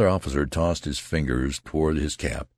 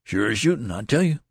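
high, louder insistent protest; angry remonstrance; 6 semitones higher, 3 dB louder than usual. A narrator's reading. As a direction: insist hotly he's telling truth. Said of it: "angry remonstrance".

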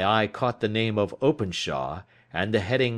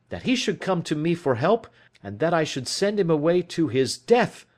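higher, heated detective vowing revenge; agitated Holmes; 6 semitones higher, 3 dB louder than usual. A narrator's reading. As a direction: build to a heated vow. Holmes agitated over the death.

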